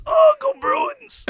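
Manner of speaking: very high, slow strangled last words; hammed-up dying Boston fan; dying cry. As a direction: squeak out a dying cheer. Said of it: "with his last words, he says".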